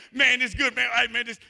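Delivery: high, loud, over-eager networking voice; hammed-up friendly keynote speaker; imitating his eager greeting. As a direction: play his bubbly self meeting strangers. Reenacting happy chatter.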